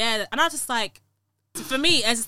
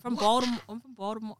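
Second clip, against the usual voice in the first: badly faked Baltimore accent; terrible Baltimore accent; 4 semitones higher than usual. Shown as a demonstration. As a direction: have a clumsy go at a Baltimore accent. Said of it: "My accent's terrible".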